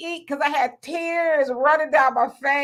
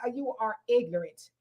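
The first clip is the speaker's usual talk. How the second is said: laughing disbelief; 7 dB quieter than usual. Retold or imitated. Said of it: "I was like".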